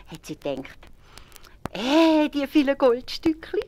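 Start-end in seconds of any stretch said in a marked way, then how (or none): 1.7-3.6 high, slow gloating wife voice with a giggle; greedy wife. A narrator's reading. Wife alone with the gold, high gloating voice.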